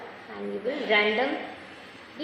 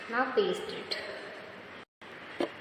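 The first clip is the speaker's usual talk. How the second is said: whisper; 10 dB quieter, much slower than usual. Real, not acted. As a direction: drop to a slow hushed whisper. Teacher giving children instructions.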